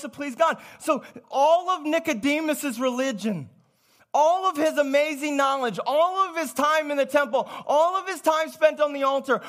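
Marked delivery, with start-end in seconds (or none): none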